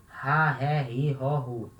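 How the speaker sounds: 'ra, ré, ri, ró, ru' with each R like an English H; breathy throat R. Shown as a demonstration. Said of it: "sempre o som da garganta".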